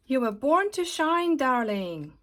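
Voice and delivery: shower her with glamorous praise; gushing Glitter. Acted. Glitter gushes over her new friend Glue.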